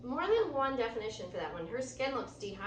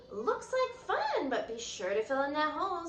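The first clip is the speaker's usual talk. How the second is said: friendly passerby; 5 semitones higher, 3 dB louder than usual. Acted. Man walking by warns the girl, lightly voiced and friendly. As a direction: warn kindly while strolling past. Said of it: "said a man walking by".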